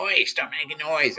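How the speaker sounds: high, drawn-out call of complaint; mock neighbour yell. Neighbour sticks her head out about noise, mock yell. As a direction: call it out slowly, imitating a cross neighbour.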